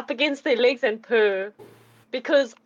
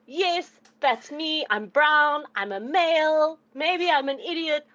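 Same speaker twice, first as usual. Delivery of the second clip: lightly raised kitten voice; 5 semitones higher, slower than usual. Pretend. Kitten introducing itself to the goblin, lightly raised kitten voice. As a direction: introduce yourself as a proud kitten. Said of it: "I'm saying".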